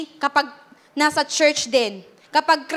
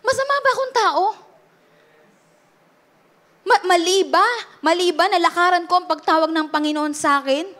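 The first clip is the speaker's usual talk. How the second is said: hurt questioning; 3 semitones higher than usual. Retold or imitated. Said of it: "tatanungin natin".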